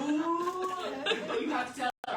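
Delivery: high, loud "ooh" with laughter; mock ominous teasing. Husband winding up daughter over broken glass, loud mock-ominous teasing. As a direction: build it up as a big scary thing. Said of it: "he's, like, building it up as this big thing".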